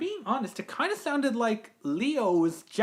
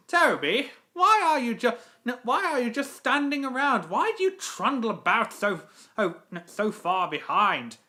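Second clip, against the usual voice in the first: a lightly put-on haughty engine, lively and swooping; James; 2 semitones higher than usual. Engine scolding Toby for standing around, in James's voice. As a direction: play a scolding engine with peaked emphasis. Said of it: "the voice of James".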